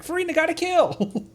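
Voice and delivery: high-pitched, delighted outburst; excited exclamation. Real, not acted. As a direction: crow over the kill, voice shooting up. Celebrating a character's kill, laughing after.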